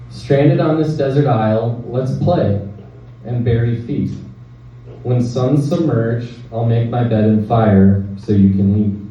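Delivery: measured poem recital with short pauses; poetry reading. Acted. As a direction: read it as verse, line by line. Reads own poem aloud.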